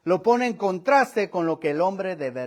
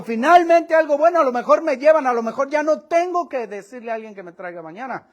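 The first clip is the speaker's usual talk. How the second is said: beggar's excited inner voice; eager hope; 4 semitones higher, 4 dB louder than usual. Retold or imitated. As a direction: voice jumps up and louder with hope. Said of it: "A lo mejor pensó".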